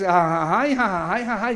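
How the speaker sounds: mock "ajajay" cry; a lightly hammed-up string of whoops; demonstrated festive whoop. Shown as a demonstration. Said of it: "tampoco es ese grito". (grito de ajajay en broma)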